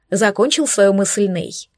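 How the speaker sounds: usual speaking voice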